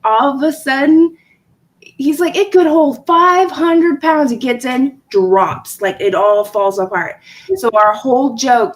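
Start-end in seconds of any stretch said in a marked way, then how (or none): 2.4-4.3 higher, slow confident claim; retold boast. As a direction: imitate a husband's boast, pitched up. Retells husband's boast.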